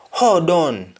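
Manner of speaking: unvoiced whispered hold on; whispered Patois phrase. Shown as a demonstration. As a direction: breathe it out in a whisper.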